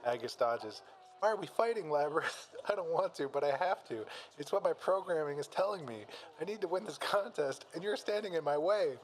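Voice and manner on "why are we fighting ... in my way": higher-pitched, reluctant fighter; lightly acted reluctant combat android; pleading android. Acted plea before android fight.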